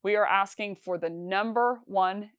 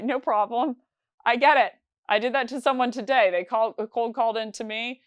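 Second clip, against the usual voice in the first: friendly excited reply; 4 semitones higher, 5 dB louder than usual. Acted. Rep answers prospect after laughing.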